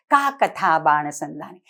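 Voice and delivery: का कथा बाण संधाने rattled off fast and casual; fast, offhand Sanskrit line; quick colloquial recitation. Shown as a demonstration. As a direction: toss off का कथा बाण संधाने like everyday speech. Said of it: "This is so very colloquial".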